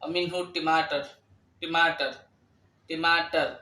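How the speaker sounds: ٹماٹر with a hard retroflex t, tongue curled back; retroflex t demo. Shown as a demonstration. Teacher drilling Arabic learners on the retroflex t. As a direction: say ٹماٹر with both t sounds retroflex, like English t. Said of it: "مثله ت في الأردية".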